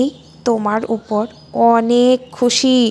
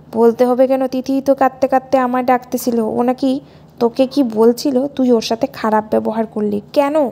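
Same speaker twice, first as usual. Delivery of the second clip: father yelling at his son, louder; furious father scolding down the phone; angry father shouting; 5 dB louder than usual. Acted. Father shouts at son for upsetting Tithi, loud angry scolding.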